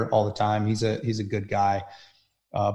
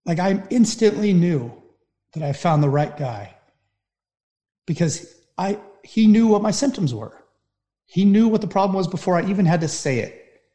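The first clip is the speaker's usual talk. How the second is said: near tears; 7 semitones higher than usual. Real, not acted. To the host, recalling finding the right therapist, near tears. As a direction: voice pushed high, fighting back tears. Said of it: "I'm gonna cry thinking about it".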